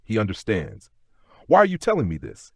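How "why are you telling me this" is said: high, louder wary question; suspicious. A narrator's reading. Duchess challenging Lord James's motives, suspicious. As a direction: question them sharply with suspicion, pitched well up. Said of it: "suspicion threading your tone".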